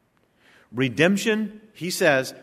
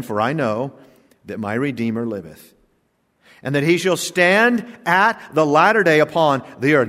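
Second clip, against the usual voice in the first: scripture reading; 3 dB louder than usual. Acted. Preacher reads Job's verse to the congregation, solemn and fading. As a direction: read the verse reverently, letting it fall away.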